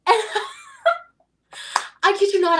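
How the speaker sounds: words broken by high laughter; laughing. Real, not acted. Hostess tells friend the story, laughing. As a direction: laugh through it, can't hold it in. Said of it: "I could not stop laughing".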